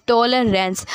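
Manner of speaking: "टॉलरेंस" carefully parted as टॉ-ल-रेंस; divided syllables. Shown as a demonstration. Teacher showing word parts, "टॉलरेंस" said syllable by syllable. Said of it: "parts divide हो रहे हैं".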